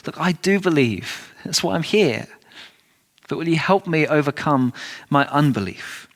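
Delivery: understated desperation, asking for help; mildly desperate plea. Retold or imitated. Father holding his son pleads with Jesus, mildly desperate. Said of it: "The absolute desperation in this man".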